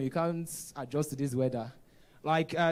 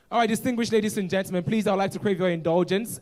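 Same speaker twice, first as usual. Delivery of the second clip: raised, formal address to the room; higher, brisk call for the audience's attention; host announcement; 4 semitones higher, 5 dB louder than usual. Real, not acted. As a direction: address distinguished guests as MC.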